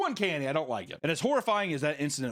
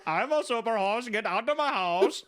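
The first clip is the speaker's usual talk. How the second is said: attempted Dutch accent; 6 semitones higher than usual. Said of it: "I can't do a Dutch thing. It keeps going to Indian".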